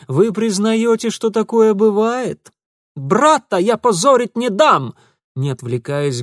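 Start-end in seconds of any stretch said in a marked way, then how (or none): 0.1-4.9 high, loud insistence; stubborn outburst. Acted. Ingvar angrily defending his brother. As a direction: press the point angrily. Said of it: "гнул своё Ингвар".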